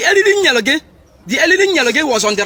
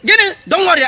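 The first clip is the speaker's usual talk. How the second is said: angry shout; 5 semitones higher than usual. Acted. Angry threatening phone call.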